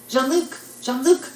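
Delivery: acted-out searching shout; retold scream.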